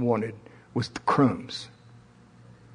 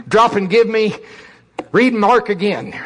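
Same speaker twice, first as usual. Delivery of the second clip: loud drill sergeant bark; 5 semitones higher, 4 dB louder than usual. Retold or imitated. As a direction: bark the order, drill instructor. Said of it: "drill instructor".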